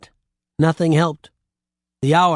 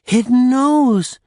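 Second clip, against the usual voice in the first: much higher and louder, thrilled shriek; 9 semitones higher, 5 dB louder than usual. A narrator's reading. Old woman thrilled by the mirror, loud shriek. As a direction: shriek the wonder out. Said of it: "the old woman shrieked".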